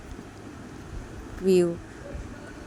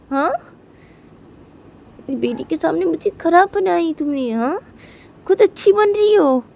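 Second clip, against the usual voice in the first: high, loud furious accusation; angry shouting; 5 semitones higher, 6 dB louder than usual. Acted. Mother rages at rival for turning daughter against her, shouting. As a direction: yell that she was made the villain. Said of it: "पियो बोलती है".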